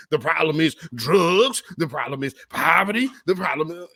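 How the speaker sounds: 模仿那种男人的嘲讽语气; mocking impression. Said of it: "let me take a shot at the black community".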